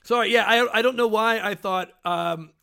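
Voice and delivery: talking through a mouthful of crackers; sticky peanut butter mouth; mouth full. Real, not acted. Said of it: "a freaking mouthful of peanut butter crackers".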